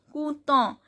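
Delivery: content said "koo-ton" with nasal ending; nasal EN demo. Shown as a demonstration. Teacher shows learners the E N sound, demonstrated French pronunciation. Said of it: "E N sound is on".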